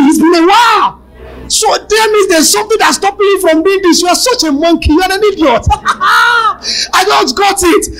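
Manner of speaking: high, loud laughing taunts; shouting in laughter, near tears; mocking laughter. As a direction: laugh the devil to scorn, shouting.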